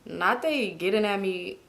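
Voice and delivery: soft, slow retold muttering; quiet, dragged-out disbelief; deflated aside. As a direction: say it small and slowly, as the butt of the joke. Acts out her hurt reaction.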